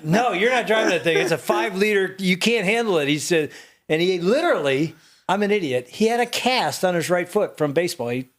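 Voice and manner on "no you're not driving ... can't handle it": firm refusal. Retold or imitated. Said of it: "And I'm like".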